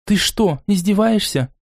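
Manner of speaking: mildly outraged female voice; indignant. Acted. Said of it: "возмущённо воскликнула ... посланница Лона".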